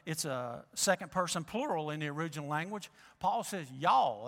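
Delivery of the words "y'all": southern y'all. Shown as a demonstration. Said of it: "That's a southern y'all".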